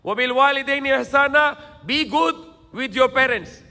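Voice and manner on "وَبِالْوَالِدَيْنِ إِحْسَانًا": Quran recitation. Acted. Preacher quotes a Quran verse.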